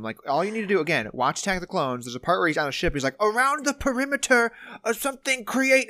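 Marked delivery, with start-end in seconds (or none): 3.2-5.9 high, jumbled Yoda voice; mock the prequel Yoda, pitched up; a lightly mocking Yoda squeak; prequel Yoda impression. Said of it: "he doesn't fucking speak like that".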